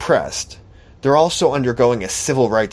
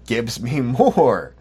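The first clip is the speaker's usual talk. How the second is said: mocking slow whine; slower than usual. Mocking a demand for money.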